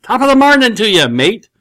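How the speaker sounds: high, loud Australian accent. Shown as a demonstration. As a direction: throw out a hearty put-on Australian accent. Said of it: "now say it with an Australian accent".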